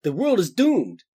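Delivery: low, gloomy voice; low gloomy hero. Acted. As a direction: deliver grim news deep and glum. Frosh voiced low throughout.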